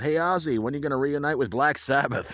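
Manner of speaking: retold heckling shout. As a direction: call out to a star across a stadium. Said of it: "I actually screamed out".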